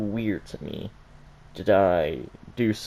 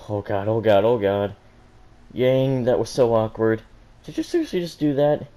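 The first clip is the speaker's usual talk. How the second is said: louder, mortified self-scolding; embarrassed panic; 5 dB louder than usual. Acted. Yang panicking alone in bathroom.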